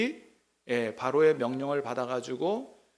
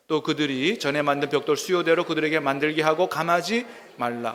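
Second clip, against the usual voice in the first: louder, measured Bible reading voice; scripture reading; 4 dB louder than usual. Acted. Pastor reading scripture to the congregation, formal and measured. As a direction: read the verse out to the congregation.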